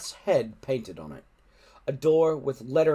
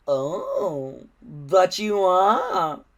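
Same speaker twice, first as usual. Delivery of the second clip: slow, louder sly villain; smiling villain; 7 semitones higher, 6 dB louder, much slower than usual. A narrator's reading. Alvin to Hiccup, slow and smugly sinister. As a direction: savour each word like a trap closing. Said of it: "smiled Alvin the Treacherous".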